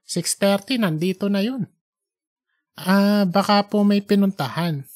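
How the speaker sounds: a hint of a surprised older woman; cleaning woman voice. Church cleaner answering the boy, lightly voiced.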